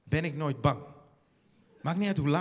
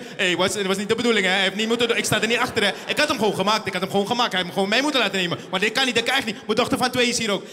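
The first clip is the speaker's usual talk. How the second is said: luid en haastig excuses maken; verontschuldigende Surinamer; 6 dB louder, faster than usual. Retold or imitated. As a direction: overdreven spijtig excuus, hard gebracht. Surinamers excuseren zich voor Babel. (luide gespeelde verontschuldiging van een Surinamer)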